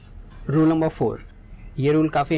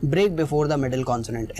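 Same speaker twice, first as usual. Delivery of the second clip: slow dictation; much slower than usual. Shown as a demonstration. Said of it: "जैसा हमारा definition बोलती है".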